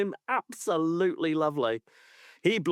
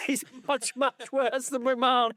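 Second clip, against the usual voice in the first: laughing mock McCoist; 10 semitones higher than usual.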